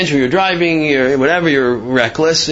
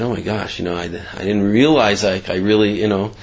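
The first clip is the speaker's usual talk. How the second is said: low, subdued stammer of regret; softly voiced remorse; feeling terrible; 4 semitones lower, 3 dB quieter than usual. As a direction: retell a stunned apology, quietly and haltingly. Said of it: "he felt terrible".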